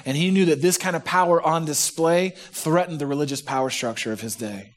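ordinary talk, nothing marked

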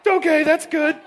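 high, loud, laughing approval; choked-up praise. Retold or imitated. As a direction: praise her through overwhelmed laughter. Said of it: "Jeannie's trying".

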